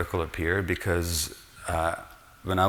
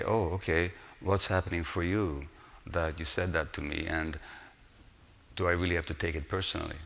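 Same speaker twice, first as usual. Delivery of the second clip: calm non-reactive response; 5 dB quieter than usual. Retold or imitated. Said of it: "Then I can respond rather than react".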